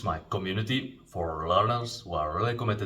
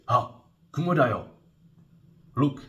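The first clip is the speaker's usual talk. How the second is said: "kumo da yo" said high and loud with alarm; excited pointing out; 6 semitones higher, 6 dB louder than usual. Shown as a demonstration. Teacher acting out spotting a spider, loud and urgent. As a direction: call out "kumo da yo" urgently to get attention. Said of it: "you can say".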